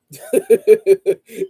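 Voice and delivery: a burst of loud laughter; big amused laugh; hearty laugh. Real, not acted. Laughs at rival being crushed.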